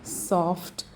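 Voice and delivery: slow, measured title read; skit title announcement. Acted. Performer introducing the deadly phone call skit, slow title read.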